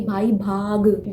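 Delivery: slow, loud play-acted call to run; lightly dramatized alarm; alarm reaction. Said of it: "आपको ये reaction देगा कि".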